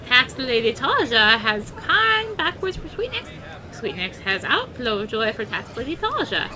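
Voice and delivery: a cheerful little creature talking in broken English; beast tribe creature voice. Acted. Reads beast tribe NPC speech.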